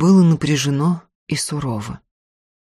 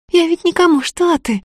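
put-on higher, lively frightened girl's voice, quick at the end; girl Tanka, alarmed; 12 semitones higher than usual. A narrator's reading. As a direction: gasp at your friend's daring.

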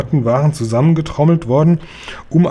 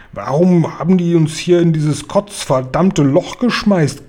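a higher, rough giant voice snapping angrily; 4 semitones higher than usual. Acted. The trapped giants snap at Guri, a furious giant voice. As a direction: bark the question like a furious giant. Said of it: "schnauzten sie den Guri an".

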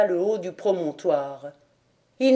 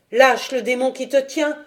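commanding cry; 4 semitones higher than usual. Acted. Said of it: "une voix cria".

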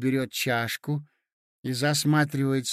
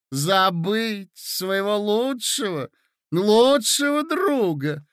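reproachful lady; 5 semitones higher, 4 dB louder than usual. Acted. Hostess scolds prince.

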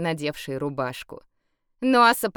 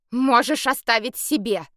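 categorical; 5 semitones higher, 4 dB louder than usual. A narrator's reading. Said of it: "категорично отвергла Саша".

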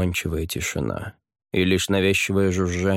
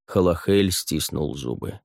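ordinary delivery

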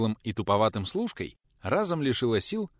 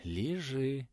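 sing-song soothing; 5 semitones higher, 6 dB quieter than usual. A narrator's reading. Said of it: "пропела женщина".

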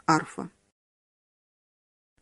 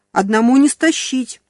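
higher, louder call of someone struggling; straining yell; 4 semitones higher, 4 dB louder than usual. Acted. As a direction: strain the voice calling for help. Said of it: "надрывался Коля".

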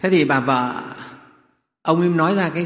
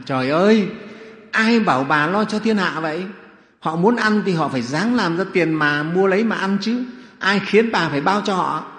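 loud, higher-pitched indignant outburst; outraged cry; 5 semitones higher, 5 dB louder than usual. Acted. Miser husband protesting his wife treating the whole town, outraged cry. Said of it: "Ông la lên".

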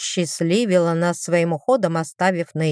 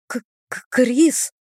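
breathless stammer; 5 semitones higher, slower than usual. A narrator's reading. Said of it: "удалось выдохнуть мне".

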